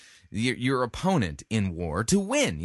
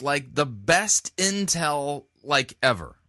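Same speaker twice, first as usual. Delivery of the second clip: put-on drawn-out Valley girl drawl; lightly voiced Valley girl; slower than usual. Shown as a demonstration. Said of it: "I'm sorry if I'm sounding like a Valley girl".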